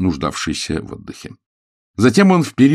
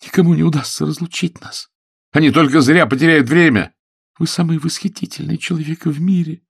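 higher, fervent declarations; ardent lovers' vows; 9 semitones higher than usual. Acted. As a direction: keep the passion soaring.

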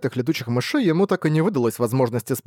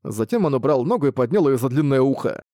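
usual speaking voice

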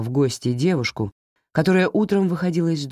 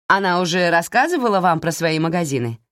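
proud; 3 semitones higher than usual. Acted. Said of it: "гордо спросила Эмили".

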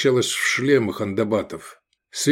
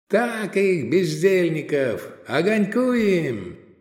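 yelling from the sidelines; 7 semitones higher, slower than usual. A narrator's reading. Crowd cheers the whipping.

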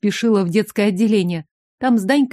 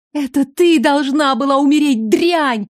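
spat out, higher and louder with hatred; venomous hiss; 5 semitones higher, 3 dB louder than usual. A narrator's reading. Shagalina spitting hate at the heroine, venomous. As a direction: curse her like a madwoman.

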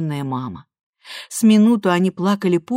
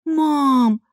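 drawn out; 9 semitones higher, 4 dB louder than usual. A narrator's reading. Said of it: "протянула Лиза".

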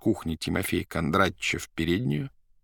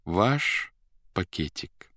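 soft and polite; much slower than usual. Acted. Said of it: "мягко и вежливо".

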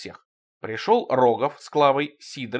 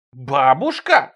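exclaiming; 7 dB louder, much slower than usual. Acted. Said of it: "вскричал я".

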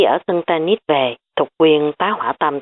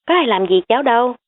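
bewildered; 7 semitones higher, faster than usual. A narrator's reading. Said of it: "Thục Quyên ngơ ngác".

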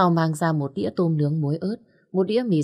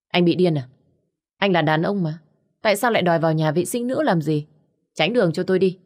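quát to, giọng say xỉn; cáu kỉnh gạt đi, nói nhanh; gắt gỏng say rượu; 2 semitones higher, 3 dB louder, faster than usual. Acted. Cô gái say quát gã đàn ông. (cô gái say quát gã đàn ông, gắt gỏng)

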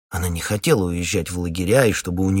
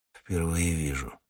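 softer, low grumble; 3 semitones lower, 8 dB quieter than usual. Acted. Hunter grumbles at the captain. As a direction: mumble it off. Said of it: "буркнул Ермил".

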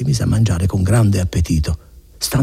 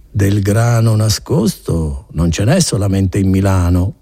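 dark and sly; slower than usual. Acted. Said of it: "con un'aria cupa e maliziosa".

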